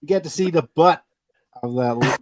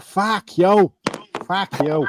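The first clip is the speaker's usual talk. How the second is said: put-on Boston accent; 4 semitones higher, much slower than usual. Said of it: "like, uh, Boston accent".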